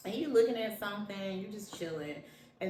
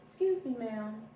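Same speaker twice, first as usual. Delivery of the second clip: polite request. Shown as a demonstration. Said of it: "how hard is it to say".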